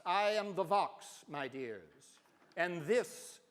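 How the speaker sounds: put-on slow, grand half English accent on Vox; a theatrical professor's half English accent. Narrator quoting the professor's grand motto joke in a half English accent. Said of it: "speaks with a half English accent, sort of like David Niven".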